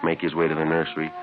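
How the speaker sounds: steady, matter-of-fact police report narration; case narration. A narrator's reading. Detective narrating the case to listeners, measured report. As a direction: lay out the facts like a detective's log.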